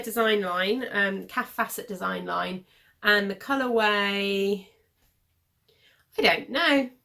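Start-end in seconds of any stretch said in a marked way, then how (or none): 6.2-6.9 whispered. Real, not acted. Muttering uncertainty to herself.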